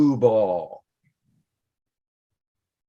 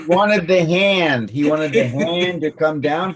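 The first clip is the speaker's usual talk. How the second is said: laughing; 4 semitones higher, 3 dB louder than usual. Real, not acted. Punchline laugh.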